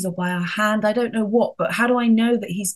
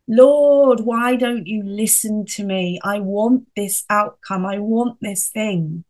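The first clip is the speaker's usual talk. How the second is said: frustrated demand; 4 dB louder than usual. Retold or imitated. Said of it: "get quite frustrated and lose sight and panic and get angry".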